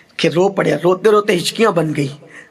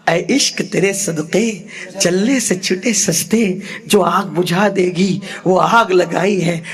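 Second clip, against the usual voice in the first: poetic recitation; slower than usual. Acted. Recites a couplet mid-sermon.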